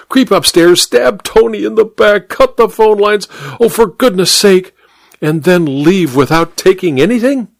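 high, exasperated list rising in pitch; increasingly worked-up, incredulous duchess; insistent. A narrator's reading. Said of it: "she insisted".

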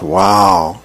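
high, drawn-out wow; impressed. Acted. Mother looking at her child's drawing, impressed. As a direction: react with a high show of amazement.

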